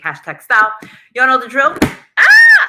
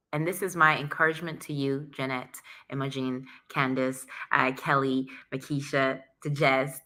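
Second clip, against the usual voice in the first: whispered encouragement; 5 semitones lower, 7 dB quieter than usual. Real, not acted.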